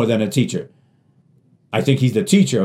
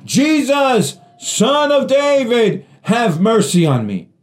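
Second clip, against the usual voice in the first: greater voice; 9 semitones higher, slower than usual. Retold or imitated. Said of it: "in a greater voice".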